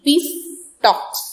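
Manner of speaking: പീസ് then a clear pause before ടോക്സ്; pause after peace. Shown as a demonstration. Teacher showing juncture to students, pause after പീസ്. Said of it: "I have made a pause after peace".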